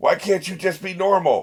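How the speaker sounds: exasperated, loud, high frustrated screaming outburst. Describing a meme of a woman in a car yelling back at a kid: retelling a scream.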